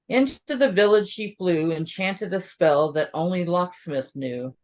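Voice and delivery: lilting verse read aloud, pausing between lines; measured storybook recitation; storytelling poem. Acted. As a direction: read it like a holiday bedtime rhyme. Continues reading the poem.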